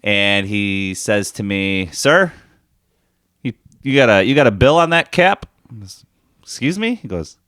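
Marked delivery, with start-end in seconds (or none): 1.9-5.5 higher, polite club starter; golf starter voice. Retold or imitated. 6.4-7.0 much higher, disbelieving excuse me; surprised. Retold or imitated. Retold reply to the starter.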